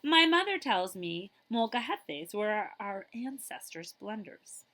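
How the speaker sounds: lively storybook reading; reading to children. Acted. Librarian reading a picture book to children, lively. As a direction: read it like story time for kids.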